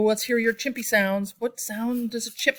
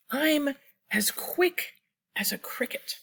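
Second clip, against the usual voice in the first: slow, hushed whisper; 6 semitones higher than usual. Acted. Reading to children, a slow whisper. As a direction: whisper it like a secret. Reading the book's first line.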